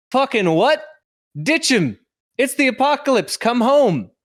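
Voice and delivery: high, loud, disbelieving; incredulous partner. Acted. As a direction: shriek it in disbelief. Voicing the partner's reaction.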